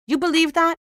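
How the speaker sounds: rising disbelief on that; incredulous. Acted. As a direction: ask it in outraged disbelief. Incredulous complaint to colleague.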